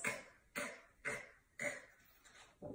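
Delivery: "K" as a bare voiceless click of sound; letter sound demo. Shown as a demonstration. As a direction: sound out "K" with no vowel, spaced apart. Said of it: "Katina Cat says".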